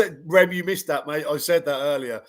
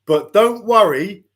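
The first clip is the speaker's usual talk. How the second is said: slow, higher and louder mock comfort; mock reassurance; 8 semitones higher, 9 dB louder, slower than usual. Quoting the trainer's promise, slow and mocking. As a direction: drag out the fake reassurance. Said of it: "he goes on to say".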